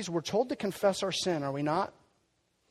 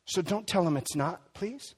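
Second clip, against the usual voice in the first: gentle plea. Acted. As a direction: ask them tenderly, please. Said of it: "repeated plea".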